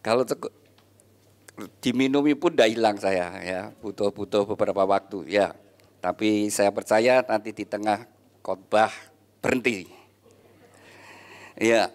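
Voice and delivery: speaking through hiccups; suppressing hiccups. Real, not acted. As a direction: hold back hiccups while talking. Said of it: "Saya cegukan ini".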